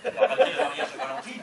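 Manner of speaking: loud, fast disbelieving question; incredulous echo. Acted. Husband echoes wife about the wedding, incredulous. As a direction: throw it back as a baffled question.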